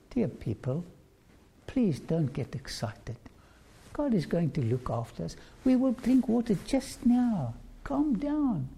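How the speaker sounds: calm the people down gently; what Moses should have said, calm and reassuring; gentle calming plea. Pretend. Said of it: "If only could have said this".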